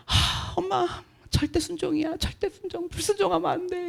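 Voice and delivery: soft, hushed insistence; mild imitation of a serious daughter; daughter's earnest warning. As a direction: press it quietly like a child lecturing her mother. Daughter quoted lecturing mom.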